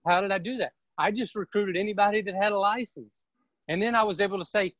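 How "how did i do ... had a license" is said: ordinary delivery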